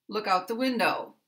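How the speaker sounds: "Look" and the first syllable of "window" stressed; stress on verb and noun. Shown as a demonstration. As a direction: lean on "Look" and "window", glide over "out the". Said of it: "stress will go on the verb and the noun".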